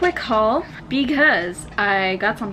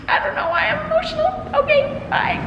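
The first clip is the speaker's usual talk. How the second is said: tearing up; faster than usual. Real, not acted. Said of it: "this is me tearing up".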